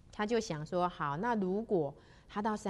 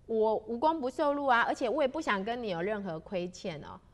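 insistent refusal; 3 semitones higher, 4 dB louder than usual. Acted. 邱大仙坚持拒绝.

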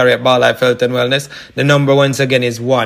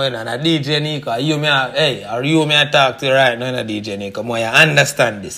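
lightly put-on Jamaican patois accent; casual radio plug in a light Jamaican-style accent. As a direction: slip into a mock island patois accent, half-hearted. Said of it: "Horrible accent, I'm sorry".

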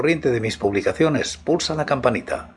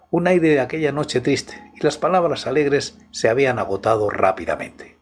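story narration. Acted. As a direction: set a midnight horror mood. Reads a horror story aloud.

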